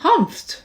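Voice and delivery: short scornful humph. A narrator's reading. Kangaroo to Horton, a scornful humph. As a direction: snort it out with disdain. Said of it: "humphed the voice".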